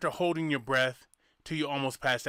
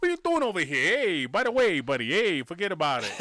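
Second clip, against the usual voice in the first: put-on Italian accent; 2 semitones higher than usual. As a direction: play a lightly done Italian mobster, forget about it. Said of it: "You hear me talk like Italian?".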